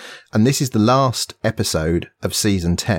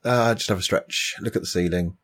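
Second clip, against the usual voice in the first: being tickled; 4 dB quieter than usual. Real, not acted. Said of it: "I've got to compose myself now".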